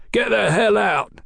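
high, forceful order; commanding. A narrator's reading. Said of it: "he commanded".

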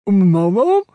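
talking through a mouthful; high squeak around a bite of sausage; mouth full. A narrator's reading. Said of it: "mouth full".

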